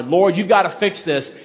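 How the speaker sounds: man at his wit's end pleading with God, lightly acted; desperate prayer. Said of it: "all that emotion ... wit's end".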